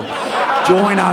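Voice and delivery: hammed-up ghost voice, laughing through it; mock spooky call to the deck; ghostly join us. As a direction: beckon like a ghost ship's dead crew. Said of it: "trying to get me to join us".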